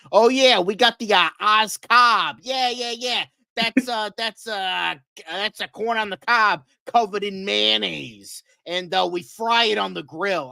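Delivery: hammed-up Brooklyn accent, lively and thick. Local boasting about Oz Cobb as a dish, Brooklyn accent. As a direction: play a small-town local who sounds straight out of Brooklyn. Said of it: "I sounded like Brooklyn".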